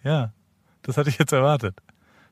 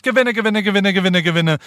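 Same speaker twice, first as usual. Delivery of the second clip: a hint of a barker chanting prizes, higher; fairground barker; 5 semitones higher than usual. Shown as a demonstration. Co-host showing how the barker should sound, lightly voiced barker. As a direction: chant the prizes like a stall hawker. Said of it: "deine Jahrmarktansagerstimme".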